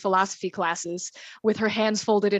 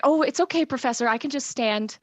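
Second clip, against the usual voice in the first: higher-pitched, mildly nervous politeness; 4 semitones higher than usual. Acted. Halfling declines a seat from her old professor, mildly nervous. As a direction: politely decline with a touch of nerves. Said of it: "looks around a little nervously".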